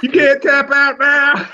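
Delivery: slow, laughing taunt. Real, not acted. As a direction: tease them through laughter. Teasing friend during challenge.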